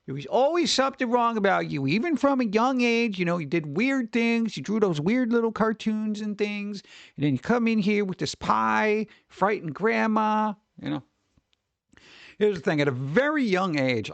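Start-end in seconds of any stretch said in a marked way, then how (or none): 0.0-11.0 put-on a slightly higher, disapproving relative with old grudges; a mild mock scolding from a family elder; lightly voiced scolding relative. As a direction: dig up his childhood like a judgy aunt. Relative scolding him about pie.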